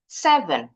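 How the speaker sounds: "Seven" with SE high, ven falling; high first syllable. Shown as a demonstration. Teacher showing seven's intonation, high first syllable. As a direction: start "Seven" on the high note and drop. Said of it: "nadanya tinggi ya di awalannya".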